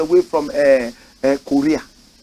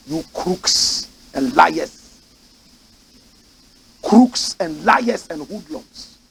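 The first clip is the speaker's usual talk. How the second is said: slow scornful denunciation; much slower than usual. Real, not acted. Denouncing corrupt politicians.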